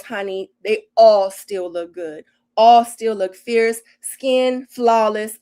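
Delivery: slow, loud hype; hyping them up. Real, not acted. Shouting out her brown skin girls, slow and loud. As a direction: draw out every compliment like a cheer.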